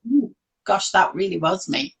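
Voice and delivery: soft, rueful realisation; quiet recognition. Real, not acted. Coach recognising her old self in her students, quiet. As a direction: let it dawn on you softly.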